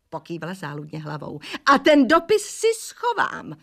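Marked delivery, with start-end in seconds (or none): 1.6-3.6 higher, slow shout. A narrator's reading. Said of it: "rozkřikla se". (vysoký pomalý výkřik)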